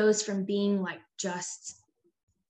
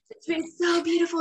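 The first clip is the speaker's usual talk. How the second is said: higher, fast, dreamy sing-song; blissful sing-song; 9 semitones higher, 5 dB louder, faster than usual. Retold or imitated. Mother parodying her own peaceful mood, higher breezy sing-song. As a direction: gush about the lovely day, lilting.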